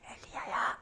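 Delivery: unvoiced, tender whisper; very soft, breath-only call; still small voice. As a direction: whisper the name right into his ear. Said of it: "세미한 소리로 다가오시면서".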